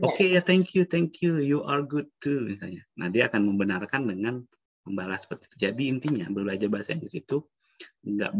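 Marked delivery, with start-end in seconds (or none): 0.0-2.4 mock cheerful foreigner thanking; friendly foreigner reply. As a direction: answer like a pleased native speaker. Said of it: "orang luar negeri akan melihat".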